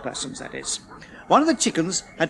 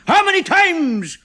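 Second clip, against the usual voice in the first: high, loud irritated question; fed up and snappy; irritable; 9 semitones higher, 6 dB louder than usual. A narrator's reading. Chemist asking the humanoid, irritated. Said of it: "the chemist asked irritably".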